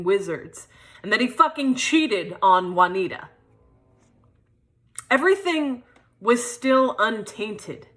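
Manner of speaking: measured performed storytelling with deliberate pauses; spoken-word monologue. Acted. Poet performs her childhood memoir to an audience, spoken-word monologue. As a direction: recite it as a personal stage piece.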